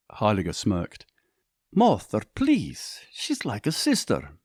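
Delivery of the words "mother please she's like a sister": voiced protesting son. A narrator's reading.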